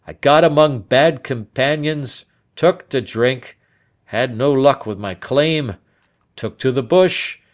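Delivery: put-on an old man unburdening a bitter past; a hint of a bitter, hot-tempered old man; Turner confessing. Turner tells his history.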